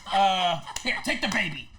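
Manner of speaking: lightly mimicked bossy instructions; Rick impression. Star sending youngster away with the baby, light impression. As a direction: hand over the baby with easy authority. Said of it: "That's him".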